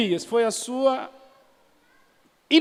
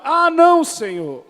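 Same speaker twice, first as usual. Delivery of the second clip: mock reluctance; 8 semitones higher, 6 dB louder than usual. Jeremiah refusing, acted.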